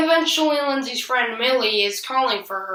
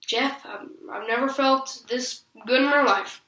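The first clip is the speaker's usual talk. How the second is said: imitating put-on sincerity; pretend, not very convincingly, to feel wonderful; clearly faking; 3 semitones higher than usual. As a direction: mildly fake heartfelt confession. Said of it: "you know, clearly faking".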